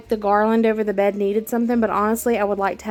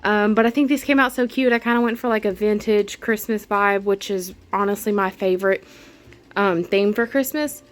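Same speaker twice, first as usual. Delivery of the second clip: out of breath. Real, not acted. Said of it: "I'm out of breath".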